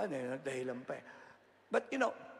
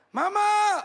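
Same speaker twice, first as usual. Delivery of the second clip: high, very loud call for mama; loud child's shout; 18 dB louder than usual. Retold or imitated. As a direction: yell it out like a child calling. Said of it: "Talaga pong nilakasan ko". (malakas na sigaw ng bata)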